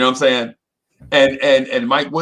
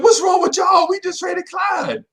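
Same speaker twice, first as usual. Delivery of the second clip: put-on crying kid outburst. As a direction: yell it like a child sobbing over the trade, slowing at the end. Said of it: "And I'm like".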